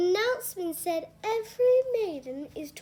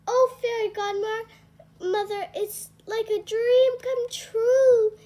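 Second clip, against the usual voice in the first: slow, high, louder wonder; dreamy delight; 7 semitones higher, 7 dB louder, slower than usual. Acted. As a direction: breathe it out like a dream. Cinderella thrilled by her gown.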